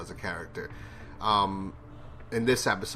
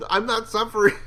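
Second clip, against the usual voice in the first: high, loud, laughing falsetto; mock dying man; 12 semitones higher, 6 dB louder than usual. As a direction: ham up the dying man's reply. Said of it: "look at Andrea like".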